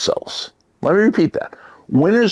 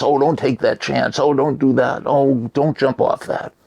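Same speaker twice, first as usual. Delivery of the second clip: slightly higher, mildly worried warning; cautious; 4 semitones higher than usual. Acted. Brain warning its owner off risks, mildly cautious. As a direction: fret a little, like an overcautious brain. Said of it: "our brain wants us to be cautious".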